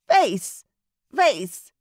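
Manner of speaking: high, loud cawing bird voice; raven caw. A narrator's reading. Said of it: "the raven cawed".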